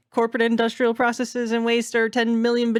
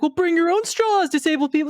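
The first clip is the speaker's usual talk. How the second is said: high, louder snooty brush-off, hammed up; mock dismissive; 9 semitones higher, 4 dB louder than usual. Mocking restaurants telling disabled people to bring straws, snooty. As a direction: sneer it like a careless restaurant. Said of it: "And it's like".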